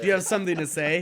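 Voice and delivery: loud, fast, high taunt; fast menacing challenge. Retold or imitated. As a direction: bark a quick challenge. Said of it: "talking like a sinister villain".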